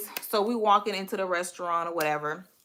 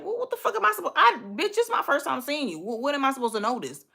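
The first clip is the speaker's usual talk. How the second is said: exasperated inner rant; 6 semitones higher, faster than usual. Retold or imitated. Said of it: "but in my head, I'm like".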